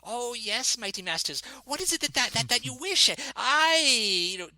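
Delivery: high, oily, groveling little voice; fawning halfling. Retold or imitated. Halfling captain's lackey greets the players, high and groveling. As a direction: simper and bow to the heroes. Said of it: "he's, like, this halfling".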